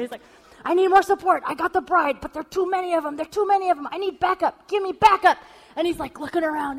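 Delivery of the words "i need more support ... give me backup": high, loud urgent radio call; mock spy calling backup. Husband hamming up a spy calling for support. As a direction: beg for reinforcements like a movie agent. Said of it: "totally going for it".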